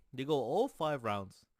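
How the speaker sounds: fired up reciting the fighter's record; hyped-up rant. Real, not acted. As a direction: hammer each result like a fight announcer. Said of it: "I don't know why I'm talking like this".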